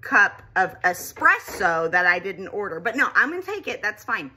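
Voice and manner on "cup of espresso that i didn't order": forced politeness. Retold or imitated. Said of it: "I just say".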